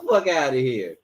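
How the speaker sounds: high-pitched mock disbelief; can't-believe-this outburst, replayed; incredulous reaction. Acting out incredulous reaction at home.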